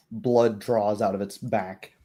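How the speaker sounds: ordinary delivery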